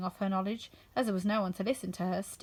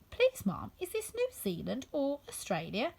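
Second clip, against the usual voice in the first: put-on polite little girl; 4 semitones higher than usual. Alice asks, curtsying politely.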